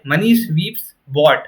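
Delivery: very slow, ending on "bought"; slow test reading. Shown as a demonstration. Teacher testing the noun slowly. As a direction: read it out slowly. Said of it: "क्या है?".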